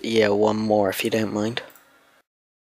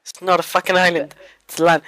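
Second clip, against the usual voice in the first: excited; 5 semitones higher than usual. Real, not acted. Overjoyed at finding land.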